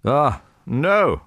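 high, loud cry of protest; shocked cry. A narrator's reading. Guests cry out at Pierre's words, high protest. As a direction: cry out in objection. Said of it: "cried different voices".

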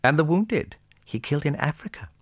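high-pitched lady's protest; indignant princess. A narrator's reading. Little princess adds a charge against Napoleon, indignant. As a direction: object in a high, dismayed voice.

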